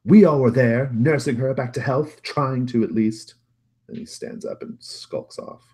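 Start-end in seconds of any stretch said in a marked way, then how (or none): 0.0-3.4 loud, high outburst, slowing at the end; screaming. Acted. Brother who nursed dying Mother, screaming at absent sibling. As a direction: scream it in bitter reproach.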